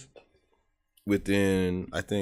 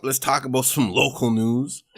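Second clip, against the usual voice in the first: newscaster voice. Acted. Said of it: "What did you say it like that?".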